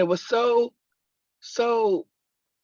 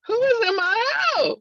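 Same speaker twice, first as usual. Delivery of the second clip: high, loud, alarmed cry; startled shout; 5 dB louder than usual. Retold or imitated. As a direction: jump out of your skin and call out. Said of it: "I was like".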